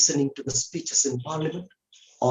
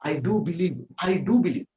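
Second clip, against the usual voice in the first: "do" lifted and leaned on; stress on DO; 4 semitones higher, much faster than usual. Shown as a demonstration. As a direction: affirm it with an emphatic "do". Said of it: "it is getting an emphasis".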